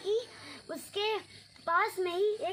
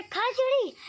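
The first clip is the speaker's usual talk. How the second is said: loud, higher mocking echo; angry mimicry; 6 semitones higher, 5 dB louder than usual. Farmer mocking Sarju's words, loud and angry. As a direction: throw his words back at him, mocking.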